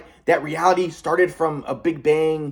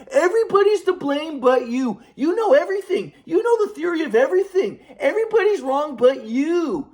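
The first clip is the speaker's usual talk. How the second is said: sarcastic grandpa; 9 semitones higher than usual. Retold or imitated. Grandpa mocking grandson who claims the theory of everything, sarcastic. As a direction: sneer each word like a scornful grandfather. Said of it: "trying to be sarcastic with me".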